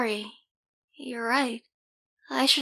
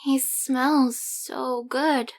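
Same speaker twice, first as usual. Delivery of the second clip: slow awed; much slower than usual. Acted. Holding the baby.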